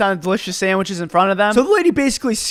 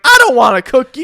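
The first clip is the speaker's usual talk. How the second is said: louder, higher retold refusal; imitated grumpy customer, louder; mock shout; 3 semitones higher, 4 dB louder than usual. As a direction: bark back a grumpy no.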